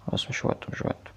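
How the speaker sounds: unvoiced, very soft not now; whispered hush. Real, not acted. Gamer telling a scare to wait, whispered. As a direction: breathe the words as a tense whisper. Hushing scare in horror game.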